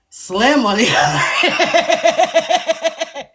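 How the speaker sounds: slow, loud and laughing. Real, not acted. Host teasing about Slim, slow loud laugh. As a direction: stretch it out through a laugh.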